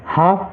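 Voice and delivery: हाफ with no L before the f; silent L. Shown as a demonstration. Teacher showing students how to read half, हाफ without any L. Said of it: "यहाँ पर भी एल silent रहेगा".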